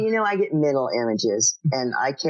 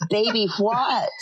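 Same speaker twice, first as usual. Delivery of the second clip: shocked mother; 9 semitones higher, slower than usual. Retold or imitated. Retelling her mother's stunned question at dinner. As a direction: stretch it out in shock. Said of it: "Mama goes".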